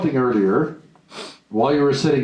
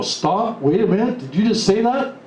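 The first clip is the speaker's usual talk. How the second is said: overheard surprise; 6 semitones higher than usual. Retold or imitated. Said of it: "you go".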